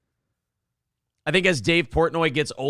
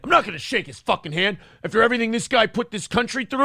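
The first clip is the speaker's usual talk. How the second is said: mock indignant refusal; 6 semitones higher, faster than usual. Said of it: "they're like".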